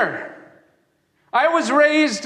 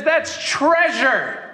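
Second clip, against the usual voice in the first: slow, tender declaration; slow gentle affirmation; loving verdict; 3 semitones higher, much slower than usual. Acted. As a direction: say it slowly with wonder and love. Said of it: "And Jesus looks at her and says".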